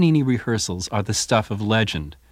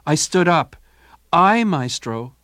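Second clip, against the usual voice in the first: put-on timid young cellist; 7 semitones higher, 4 dB louder than usual. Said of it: "Toscanini admits to his musicians".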